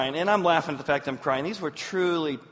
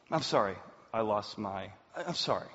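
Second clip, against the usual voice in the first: imitated emotional apology; 6 semitones lower, 4 dB quieter than usual. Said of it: "The minute somebody gets emotional".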